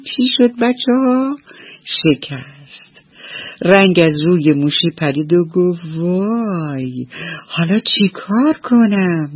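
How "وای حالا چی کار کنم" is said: frightened. Acted. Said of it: "موشی خیلی ترسید".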